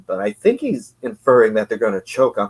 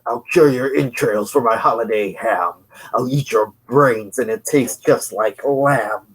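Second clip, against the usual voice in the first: gravelly metal voice. Acted. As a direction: growl it like a death metal frontman. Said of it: "Doing my gravelly metal voice".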